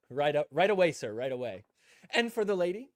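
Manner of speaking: loud, eager shout of right away; a fawning worker racing to serve; eager server. Retold or imitated. Restaurant worker to CJ, loud and fawning.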